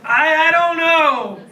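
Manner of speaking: tiny, high, slow stammer; meek stammer. Retold or imitated. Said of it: "And I just said".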